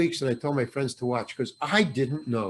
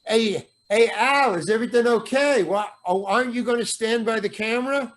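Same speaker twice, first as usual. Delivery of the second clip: higher, raised call to the director; cinematographer yelling; 5 semitones higher than usual. Retold or imitated. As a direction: shout across the set. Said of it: "the cinematographer yells".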